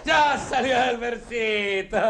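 drawn-out mocking jeer; mock her slowly, savouring it; slow sneer. To Yoli after she says mi país, slow sarcastic jeer.

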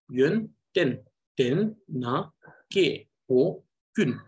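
each syllable hit apart with extra weight; extra syllable emphasis. Shown as a demonstration. Teacher showing syllable reading, each syllable stressed. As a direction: lean hard on every syllable, one by one. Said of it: "I put extra emphasis here".

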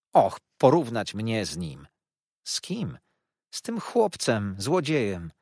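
a touch of tearful sobbing, understated; mildly voiced tearful complaint. A narrator's reading. Wife hurt by the comparison, mildly tearful. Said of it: "mówiła, szlochając na dobre".

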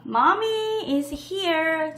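each word drawn out slowly for learners; slow model phrase. Shown as a demonstration. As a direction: say it slowly and clearly, like a teacher modelling.

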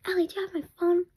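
fast whisper of mom's call; whispered mom imitation. Kid retelling mom's call in a fast whisper. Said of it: "But then she's like".

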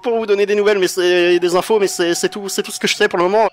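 nervous informant. Acted. GM voices the captured informant.

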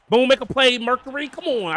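loud, high shout at the player; excited urging. Real, not acted. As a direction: yell for Mercury to make the play. Urging defender on third down.

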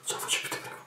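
high pleading, voice pushed up; desperate pleading. Acted. Acted desperate pleading film character.

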